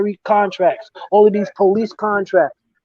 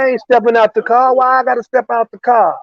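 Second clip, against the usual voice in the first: mock-indignant protest at a cop; acted-out defiant driver; defiant refusal; 5 semitones higher, faster than usual. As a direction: push back higher, mildly outraged. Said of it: "Wow, different accent".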